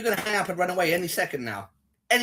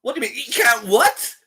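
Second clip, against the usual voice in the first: higher-pitched mock disbelief; mocking imitation; 4 semitones higher, 4 dB louder, slower than usual. Streamer mimics a confused caller, mockingly. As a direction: parrot it back high and incredulous.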